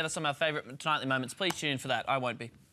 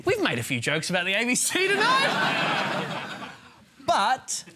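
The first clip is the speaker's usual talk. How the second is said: raised voice; 11 semitones higher, 3 dB louder, slower than usual. Acted. Mock-sheepish shout over audience laughter.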